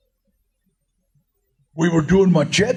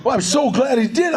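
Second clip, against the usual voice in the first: normal talking voice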